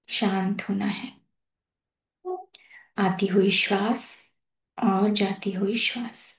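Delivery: calm, measured phrases with long pauses; guided meditation. Real, not acted. Host leading masters to settle into their breath, guided meditation. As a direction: guide them gently into breath awareness, unhurried.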